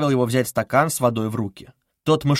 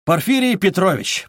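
loud and distinct; 5 semitones higher, 4 dB louder than usual. Acted. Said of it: "проговорил он громко и отчётливо".

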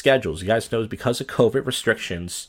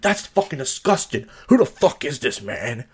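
disgusted stranger. Retold or imitated. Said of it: "You're like".

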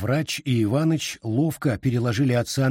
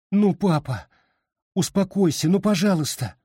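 higher, pleading with tears in voice; tearful plea; 8 semitones higher than usual. A narrator's reading. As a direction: beg father to calm down, near tears. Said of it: "со слезами в голосе". (со слезами в голосе)

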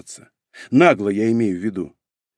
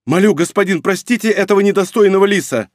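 pleading; 7 semitones higher, 4 dB louder than usual. A narrator's reading. Fox begs for mercy.

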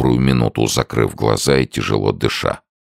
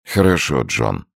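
wearily. A narrator's reading. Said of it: "и сказал устало".

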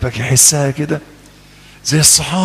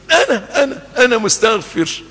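put-on eager child answer; 8 semitones higher than usual.

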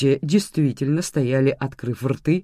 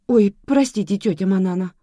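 higher, startled apology; gasped apology; 7 semitones higher, 5 dB louder than usual. A narrator's reading. Lola apologises to her scolding aunt, gasping. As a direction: apologise as if caught out. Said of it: "ахнула Лола".

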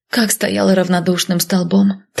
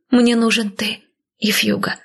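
plain reading voice

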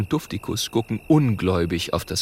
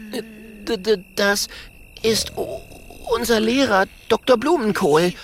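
stammering fright; 12 semitones higher than usual. Acted.

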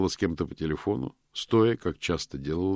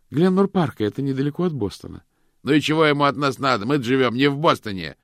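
much higher and louder, fast; shouting back and forth; 9 semitones higher, 9 dB louder than usual. A narrator's reading. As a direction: call it across the room in a hurry. Husband and wife shouting across.

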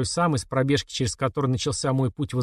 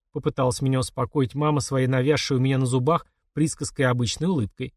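ordinary delivery

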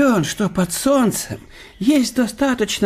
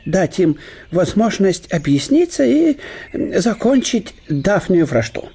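лёгкий голос весёлого гостя; говорить бодро и со смешком; добродушный немецкий профессор. Acted. Штелин пересказывает дворцовую историю. (гость бодро утешает больного хозяина)

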